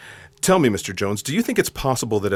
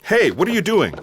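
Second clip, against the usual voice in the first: high, loud alarmed cry; startled protest; 10 semitones higher, 4 dB louder than usual. Acted. Agent protests as Jones grabs the rock, alarmed. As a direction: jolt as he grabs your arm.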